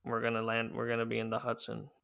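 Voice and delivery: lightly voiced gruff, low-pitched pilot; a hint of a dark, no-nonsense captain; gruff Sully. Co-host imitates real Sully refusing the controller's options, gruff. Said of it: "a lot more dark and gruff".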